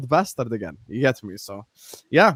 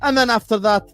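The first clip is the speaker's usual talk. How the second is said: upbeat promo read with punched openings; 2 semitones higher than usual. Acted. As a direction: sell it to the viewers, energetically. Recorded sponsor ad read.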